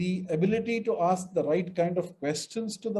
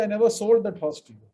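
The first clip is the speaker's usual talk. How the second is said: never hit, a bit louder; stress on never; 2 semitones higher, 6 dB louder than usual. Shown as a demonstration. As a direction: push never with a falling tune. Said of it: "Some might say".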